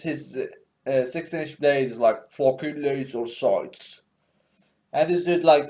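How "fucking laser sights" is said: slow, badly faked British accent; hammed-up British operator, slow and softer; Thatcher. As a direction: drag it out in mock British.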